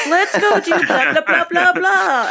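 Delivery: excited tipsy gibberish, acted out; drunk friends. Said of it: "they came back super fucking shwasted".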